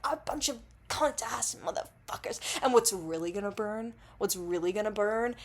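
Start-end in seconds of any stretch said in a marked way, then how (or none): 0.0-2.4 hammed-up sweary tirade with a high, loud burst; mock angry rant. Fan imagines their favourite YouTubers ranting, mock angry tirade. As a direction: play at cussing out the fans. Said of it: "they're gonna be like".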